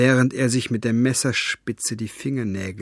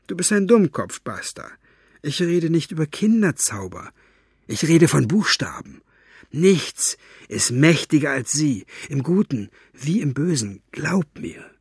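put-on scornful old storyteller; 5 semitones higher than usual. Fenoglio lecturing.

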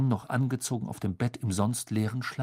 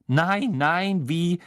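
soothing; 7 semitones higher, 5 dB louder, slower than usual. Acted. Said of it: "beschwichtigte sie die fette Dame".

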